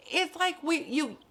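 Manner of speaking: high-pitched disbelief; squeaky incredulous shout; exasperated. Real, not acted.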